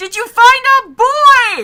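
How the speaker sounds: very loud, shrill, high, drawn-out yell carried across distance. Retelling calling out across a battle to a fighting teammate: imitating own yell. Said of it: "I'd yell at the distance".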